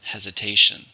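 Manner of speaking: "Hesitation" with a strong stress on TA; stress on third syllable. Shown as a demonstration. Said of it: "stress on the third".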